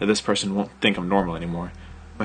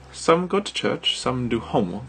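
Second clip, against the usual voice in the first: put-on British accent; 4 semitones higher, slower than usual. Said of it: "she said".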